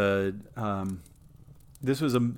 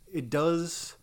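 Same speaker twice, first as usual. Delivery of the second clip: whispered aside; 6 semitones higher than usual. Real, not acted. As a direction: drop to a whisper. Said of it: "unvoiced whisper".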